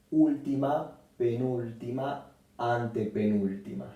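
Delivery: Última, penúltima, antepenúltima counted off in steps; counting syllables from the end. Shown as a demonstration. Teacher counting syllables back to find the stress. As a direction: tick off the syllables one by one. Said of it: "se acentúa en la antepenúltima".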